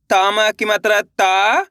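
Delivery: slowly drawn-out teaching read of ता; ता said slowly with a clear long आ; slow syllable drill. Shown as a demonstration. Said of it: "तेजी के साथ आपको इसका उच्चारण निकालना है". (धीरे से खींचकर ता बोलना)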